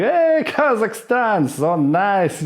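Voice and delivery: high, slow cheery tourist voice; pretend clueless tourist. Comic pretending not to understand the driver, high and slow. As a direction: play dumb about the watch. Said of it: "I pretend I'm not understanding".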